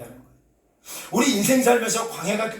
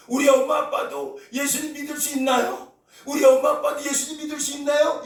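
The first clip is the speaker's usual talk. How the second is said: put-on child's plea; 5 semitones higher than usual. Child's plea voiced by pastor.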